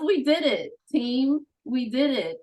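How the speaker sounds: rally the team with a cheer; proud, excited shout-out to the team; triumphant cheer. Real, not acted. Celebrating the finished project with the team.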